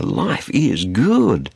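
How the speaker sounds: very slow, drawn-out mock contentment; mock party-goer. Preacher imitating people at a big party, drawled self-satisfaction. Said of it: "having a big party saying".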